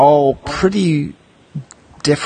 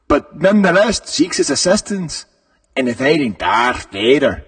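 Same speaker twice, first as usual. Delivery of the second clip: put-on Scottish accent; 3 semitones higher than usual. Host reading the Lando card, switching to a mock Scottish accent. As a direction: try it in a hammy Scottish brogue. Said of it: "I went Scotland".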